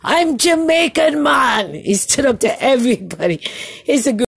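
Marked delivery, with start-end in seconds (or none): 0.0-1.7 proud shout. Retold or imitated. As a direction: belt out his heritage proudly, hammed-up. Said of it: "And he said".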